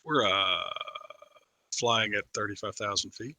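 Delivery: low, laid-back cockpit announcement; lightly voiced airline captain; airline pilot voice. Shown as a demonstration. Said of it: "You started to sound like a Delta pilot".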